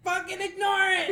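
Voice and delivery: loud, high-pitched insistence; hammed-up alarmed yell; acted frantic order. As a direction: order them off in mock panic. Retold panicked order to coworker.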